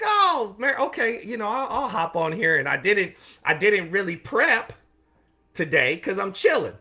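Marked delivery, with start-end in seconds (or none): 0.0-2.6 much higher, sing-song yes-man voice; mock eager reply. Agreeing to his social media director in a high mock-eager voice. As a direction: play the eager employee who gives in. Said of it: "I was like".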